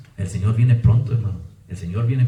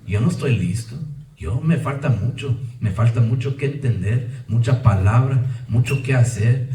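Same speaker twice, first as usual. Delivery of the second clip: humble prayer. Retold or imitated. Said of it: "Que Dios diga".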